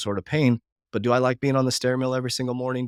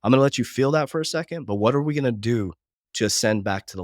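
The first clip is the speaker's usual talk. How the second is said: gentle self-talk. Retold or imitated. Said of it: "looking myself in the mirror and saying".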